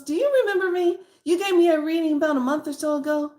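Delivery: gushing, high-pitched joy at seeing the reader; gushing client. Retold or imitated. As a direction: squeal it like an overjoyed returning client.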